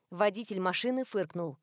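usual speaking voice

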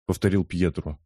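plain reading voice

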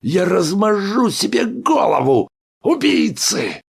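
high, loud frantic scream; hysterical shout. A narrator's reading. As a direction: scream it in despair. Hysterical threat.

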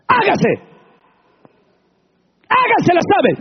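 booming high divine command; God commanding. Acted. God calling creation into being, booming command. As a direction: thunder it out as the Creator. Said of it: "todo Dios lo creó con su palabra".

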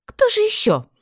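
grumpy mother voice. A narrator's reading. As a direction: snap it back, high and cranky. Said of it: "сварливо заметила она".

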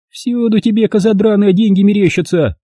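high, contemptuous sneer; disgusted scorn. A narrator's reading. Olga shoving the weeping maid away in disgust. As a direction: spit it out with disgust. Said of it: "Брезгливо оттолкнула она меня".

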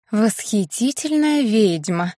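slow, drawn-out self-praise in a put-on voice; reminding witch. A narrator's reading. Witch Blair correcting Colton on her title, slow and smug. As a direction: savour each word like a proud title. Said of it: "напомнила Блэр".

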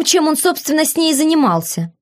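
usual speaking voice

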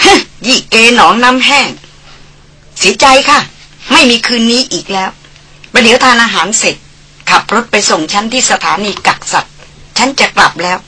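lightly voiced haughty young lady scolding; mock him with a sneer, slowing the jibes; Darin teasing. Darin scoffs and refuses. (ดารินพูดเหน็บแนมแบบคุณหญิงถือตัว)

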